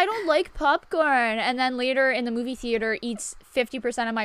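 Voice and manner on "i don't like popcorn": imitating friend. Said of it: "you're someone who's like".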